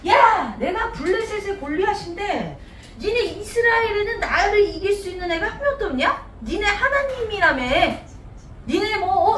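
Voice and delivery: lightly acted Goliath mocking his foes; 놀리는 골리앗. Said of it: "막 이렇게 놀리는 거야". (살짝 약 올리듯 비아냥거리는 말투)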